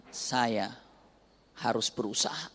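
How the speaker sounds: low, soft determined murmur; wife quietly resolving to keep working; quiet resolve. Retold or imitated. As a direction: say it softly to yourself.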